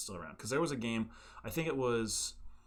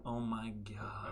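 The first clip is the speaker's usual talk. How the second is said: breathy awed whisper; 8 dB quieter, much slower than usual. Real, not acted. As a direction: whisper it in disbelief. Awed at the idea of a remaster.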